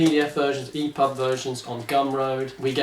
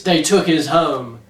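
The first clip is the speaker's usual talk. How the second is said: slow, ominous trailer tagline; movie tagline; much slower than usual. Acted. Host reading the book's tagline, slow trailer voice. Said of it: "The tagline is".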